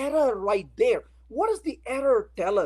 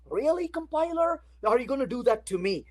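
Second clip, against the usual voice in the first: exasperated eye roll. Retold or imitated. A programmer complaining to the compiler, mock exasperated. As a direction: roll your eyes through it. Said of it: "rolling your eyes saying".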